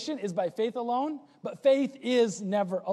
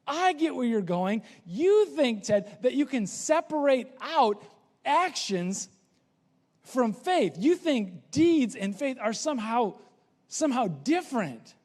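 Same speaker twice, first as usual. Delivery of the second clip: higher, knowing voice; higher knowing voice, James addressing Ted; 4 semitones higher than usual. Retold or imitated. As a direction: play James seeing through Ted. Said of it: "he's saying".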